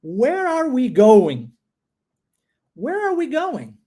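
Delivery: "Where are we going?" said slowly and clearly; slow model. Shown as a demonstration. Teacher models the full question slowly for the class. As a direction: lay out each word of "Where are we going?". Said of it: "vamos tentar agora".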